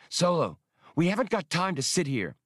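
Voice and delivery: high, urgent, fierce objection; fierce rasp. A narrator's reading. Hasty objects to Solo about sitting under fire, fiercely. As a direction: snap at him with fierce impatience. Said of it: "Hasty rasped fiercely".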